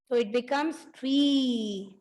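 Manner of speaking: slow, drawn-out reveal of tree; slow teacher reveal. Shown as a demonstration. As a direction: announce the answer slowly to the kids. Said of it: "unjumble the letters".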